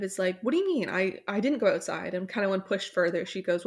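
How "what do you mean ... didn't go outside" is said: mock defensive, pitch jumping at the start; mildly defensive. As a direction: retell a touchy denial, not quite angry. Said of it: "not gets angry, but kind of".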